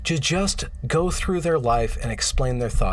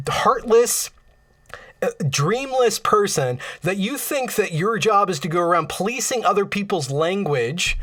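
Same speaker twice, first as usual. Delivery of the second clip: getting mad; 3 semitones higher than usual. Real, not acted. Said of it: "I don't know why I'm getting mad".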